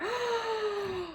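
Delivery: high, soft gasp of delight; long thrilled intake of breath; excited gasp. Real, not acted. Thrilled by the new palette.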